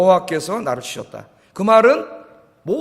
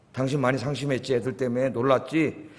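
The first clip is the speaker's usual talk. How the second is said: tender husband; 6 semitones lower, 7 dB quieter than usual. Retold or imitated. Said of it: "이렇게 말하는 남편이".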